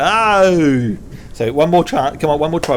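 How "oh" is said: "Oh" stretched into a long Aussie vowel; drawn-out Aussie "Oh". Shown as a demonstration. Host shows the sound to copy, long Aussie "Oh". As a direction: hold "Oh" long, gliding as in broad Australian. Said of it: "Like that. You've got to".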